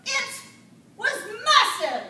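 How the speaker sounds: loud and slow, full of awe; dramatic slow build. Acted. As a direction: stretch it out, loud and awed. Shark attack told with suspense.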